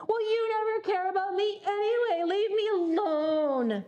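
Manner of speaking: a teen's half-hearted retold yell at mom; mild mock yell. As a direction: play the hurt daughter lashing out, lightly. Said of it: "Julia responds to her by yelling".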